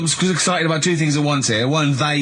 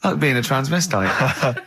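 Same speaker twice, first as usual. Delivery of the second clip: mock Carl musing; slower than usual. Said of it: "in his own mind just goes".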